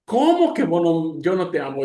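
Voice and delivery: sorpresa de madre imitada, tono algo alto; madre indignada. Retold or imitated. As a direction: responde como una mamá incrédula. Madre sorprendida por el reproche. (mamá sorprendida, protesta)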